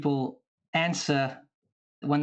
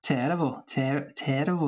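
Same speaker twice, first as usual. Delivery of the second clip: practising a Welsh accent; Welsh accent attempt. Shown as a demonstration. Panellist copying the host's word, Welsh accent. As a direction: try out the Welsh way of saying it. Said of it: "I have to teach you some Welsh".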